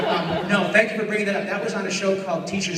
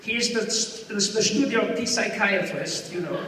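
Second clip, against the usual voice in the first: German accent; 2 semitones higher than usual. Shown as a demonstration. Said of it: "I took this voice from Peter Sellers".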